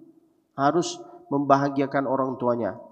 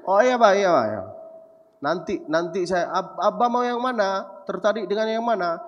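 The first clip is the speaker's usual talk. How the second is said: higher, a light eager-to-please son; 4 semitones higher than usual. Retold or imitated. Son answering his father on the phone, eager and higher. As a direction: hurry to agree with dad.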